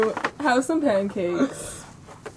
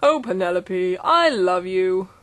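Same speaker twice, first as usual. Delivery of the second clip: lightly voiced Ken; 3 semitones lower than usual. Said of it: "Ken said".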